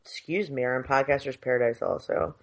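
talking through the hiccups. Real, not acted. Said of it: "sorry, I have the hiccups".

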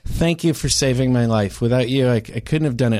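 mock-grateful deadpan; sarcastic thanks. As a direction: thank him while meaning the opposite. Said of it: "I was being sarcastic".

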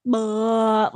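slack, drooping "bleh" noise; slack-jawed bleh. Retold or imitated. Mimicking a toddler zoned out at the TV, slack-jawed bleh. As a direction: let a dull bleh fall out of an open mouth. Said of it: "like, drooped open".

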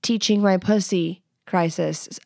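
hammed-up confession to her partner; mock confession. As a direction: stumble into it like a big reveal. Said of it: "you don't have to say it like that".

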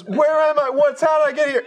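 high-pitched mock bewilderment; confused old man. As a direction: play an old man suddenly lost. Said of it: "one of them then goes".

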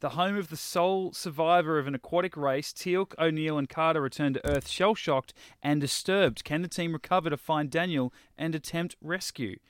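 slightly lifted episode-summary read; announcing the plot to co-hosts; synopsis read-out. Acted. Reads the episode synopsis aloud.

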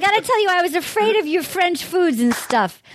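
hammed-up Boston accent. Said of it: "Can I do a Massachusetts accent".

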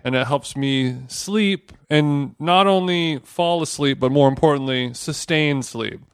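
infomercial voice. Acted. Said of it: "you sound like a infomercial".

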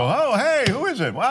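high, sing-song politeness; mock-friendly greeting. Host showing how not to answer at midnight, mock-sweet. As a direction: put on harmless, airy niceness.

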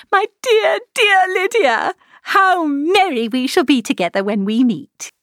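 high, loud, flustered calling out; violent transports of joy. A narrator's reading. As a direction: cry out orders in giddy delight. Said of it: "the violence of these transports".

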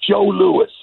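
put-on high-pitched old man's proud answer. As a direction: announce it high, imitating an elderly fan. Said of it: "And the old man looked up and went".

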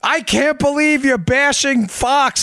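high, slow mock of an outraged email; a lady's angry all-caps email; indignant listener. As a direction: read it back with mock outrage. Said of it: "I'm reading the email like".

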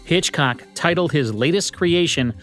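usual speaking voice

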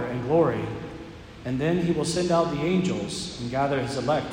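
measured solemn scripture reading; Gospel reading. Acted.

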